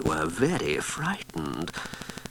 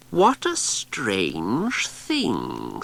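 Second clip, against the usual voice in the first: puzzled; 3 semitones higher, much slower than usual. Acted. Cassandra puzzled.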